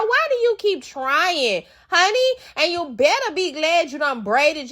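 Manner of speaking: pitying reality-show put-down; exasperated scolding. Real, not acted. Scolding a castmate.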